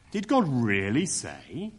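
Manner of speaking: slow, drawn-out sneer of mock surprise. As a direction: let the doubt drip slowly off "Did God really say". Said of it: "It's more a kind of sneer".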